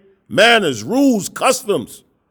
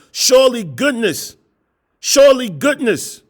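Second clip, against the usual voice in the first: scripture reading. Acted. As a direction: read the verse like a preacher from the pulpit. Reads Psalm twenty-three aloud.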